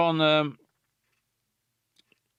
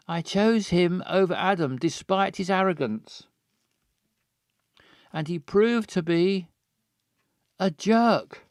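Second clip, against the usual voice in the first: put-on drunk lament; 5 semitones higher than usual. Voicing drunk character.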